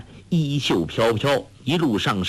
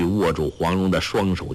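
plain reading voice

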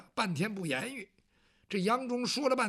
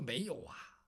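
low Bao Gong; 8 semitones lower, 11 dB quieter than usual. Acted. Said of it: "包公说".

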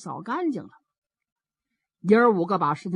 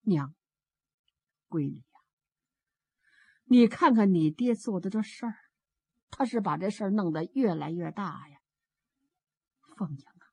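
sorrowful mother; 3 semitones lower than usual. Acted. Despairing mother confides in daughter.

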